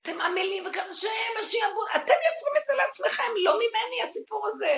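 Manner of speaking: high, loud, booming divine rebuke; God shouting at his people. Acted. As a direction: cry out as God rejecting the blame. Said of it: "השם אומר".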